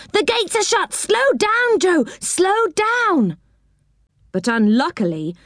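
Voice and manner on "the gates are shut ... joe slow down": high, alarmed calls; urgent warning. A narrator's reading. Rick urging Joe to brake, alarmed high cries. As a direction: panic rising, make him brake.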